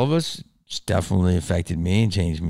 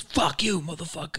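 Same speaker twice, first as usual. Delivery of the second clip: retold curse; 8 semitones higher, 7 dB quieter than usual. Street guy cursing at speaker.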